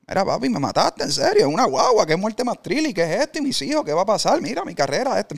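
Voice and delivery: desperate protest. Retold or imitated. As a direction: plead wildly, as if losing it. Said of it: "a reclamarle bien loco, desesperado". (reclamo desesperado, más agudo y fuerte)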